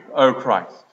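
ordinary talk, nothing marked

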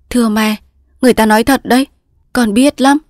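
respectful daughter, pitched a little high; lightly voiced daughter. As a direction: speak as an earnest daughter to her mother.

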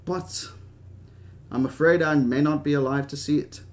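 put-on wistful old British dreamer; Hammond. Old man afraid he won't see children's joy, wistful British voice. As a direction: savour the words, pausing, in a British old man's voice.

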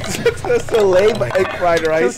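slow, laughing repeat of the joke. Real, not acted. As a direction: laugh through the words, slowly.

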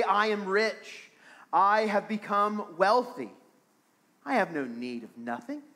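mildly sarcastic quoted boast; lightly mocking self-satisfaction; a little sarcastic. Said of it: "a little bit of sarcasm".

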